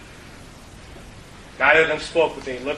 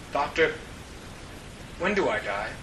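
quiet, shaky; 7 dB quieter than usual. Acted. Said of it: "in a quiet, slightly shaky voice".

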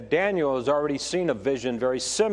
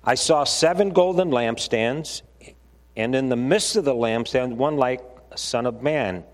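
slightly raised, measured Bible-reading voice; scripture reading. Acted. Preacher reading John's vision to the congregation, firm scripture reading. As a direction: read the verses out firmly to a congregation.

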